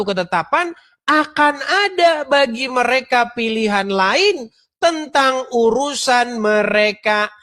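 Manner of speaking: slow, solemn verse reading; formal scripture reading. Acted. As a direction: read the verse slowly and gravely. Reads Quran verse translation.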